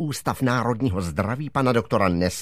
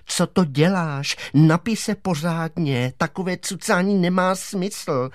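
higher-pitched motherly nagging; scolding mother; 6 semitones higher than usual. Acted. Mother telling her son to drink properly, scolding. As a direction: chide a child into drinking.

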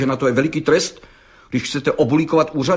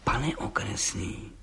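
mstivě; 4 semitones lower, 11 dB quieter, slower than usual. A narrator's reading. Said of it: "řekl mstivě".

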